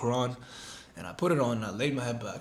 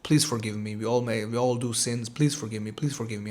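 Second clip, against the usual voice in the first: tearful prayer; 3 semitones lower, 4 dB quieter than usual. Retold or imitated. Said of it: "tears running down my face".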